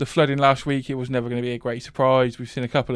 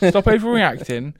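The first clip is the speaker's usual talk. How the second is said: higher, louder, drawn-out telling-off; mock scolding; 6 semitones higher, 5 dB louder than usual. Host telling worried colleague to calm down, mock scolding. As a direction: tell them off slowly and loudly. Retold dismissal of colleague's flood alarm.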